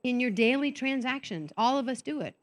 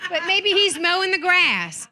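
laughing aside; 8 semitones higher, 8 dB louder than usual. Real, not acted. Joking about husband.

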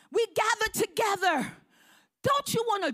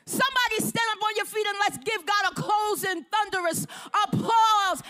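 closing altar call; 3 semitones higher than usual. Acted. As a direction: lift them to their feet.

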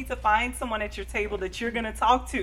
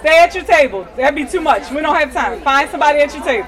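raised voice over a noisy room; calling out; 3 semitones higher, 11 dB louder than usual. Real, not acted. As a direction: project to the whole hall.

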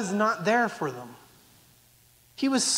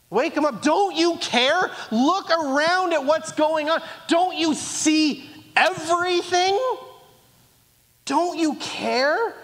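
angry disciples; 5 semitones higher than usual. Retold or imitated. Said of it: "they're angry at Jesus".

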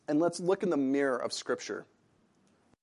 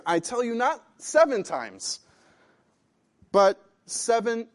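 Jesus answering; 7 semitones higher, 4 dB louder, slower than usual. Acted. Preacher voices Jesus answering.

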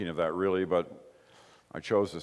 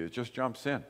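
usual speaking voice

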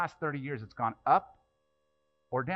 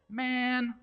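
high, drawn-out exasperated man; Jesus sighing at the question, pitched way up; 11 semitones higher than usual. Retold or imitated. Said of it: "that's how he said it".

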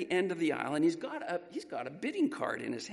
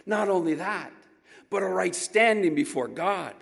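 rising, louder preacher cadence; preaching build; 3 semitones higher, 7 dB louder than usual. Acted. Preacher lifting the congregation, building loud. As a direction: build each "not only" to a peak.

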